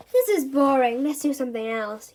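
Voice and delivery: bored yawn. Acted. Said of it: "yawned Darren".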